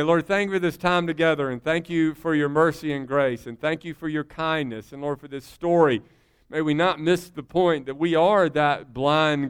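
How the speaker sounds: pastor's benediction prayer; closing prayer. Acted. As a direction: pray over the congregation, building then settling.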